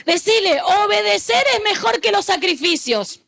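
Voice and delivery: fervent preacher's call; full-force preaching. Acted. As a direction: urge the congregation to repeat it.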